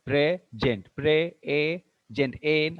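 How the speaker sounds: "Present" split into PRE and JENT; syllable by syllable. Shown as a demonstration. Teacher showing both vowels are pronounced, syllable-by-syllable "Present". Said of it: "Both the vowels are being pronounced".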